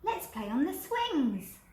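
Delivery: eager little one's suggestion, drawn out; little skeleton voice. Acted. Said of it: "said the little skeleton".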